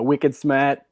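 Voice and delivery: broad Boston catchphrase vowels; Boston accent. Shown as a demonstration. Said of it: "like, the Boston thing".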